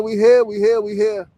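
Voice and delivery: rallying call; loud hype. Real, not acted. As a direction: pump the crowd up with it. Hyping up the stream.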